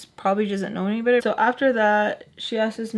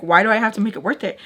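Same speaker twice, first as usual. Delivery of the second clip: loud, quick mock protest; indignant question; 5 dB louder, faster than usual. The speaker protesting to Mister Peach, mock indignant. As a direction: burst out fast and louder.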